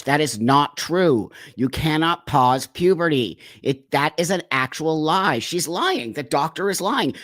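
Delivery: real, emotional indignation; worked up. Real, not acted. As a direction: push back hard, getting heated over the lie. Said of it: "I'm getting a little emotional".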